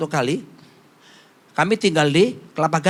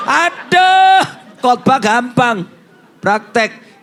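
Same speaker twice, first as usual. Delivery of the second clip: much higher, louder cry, then slowing; rueful outcry; 4 semitones higher, 4 dB louder, much slower than usual. Acted. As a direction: wail it at yourself, caught out. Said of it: "self-rebuke exclamation".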